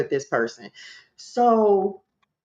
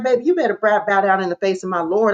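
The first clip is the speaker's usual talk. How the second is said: going in; faster than usual. Retold or imitated. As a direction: order the enemy to submit. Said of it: "Y'all, I'm going in".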